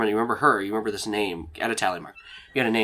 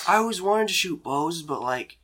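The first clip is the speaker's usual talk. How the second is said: lightly voiced awkward guy, higher; halting, pitched-up character voice; Dean; 5 semitones higher than usual. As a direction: confess it awkwardly, voice raised. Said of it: "And he goes over".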